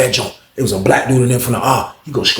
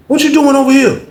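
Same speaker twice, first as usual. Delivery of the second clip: surprised; 14 semitones higher, 6 dB louder than usual. Retold or imitated. Terrence confronting grandson.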